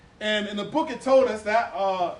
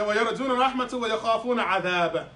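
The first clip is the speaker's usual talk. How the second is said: 1 quick Quran recitation; much faster than usual. Real, not acted. Reciting Quran verse fast.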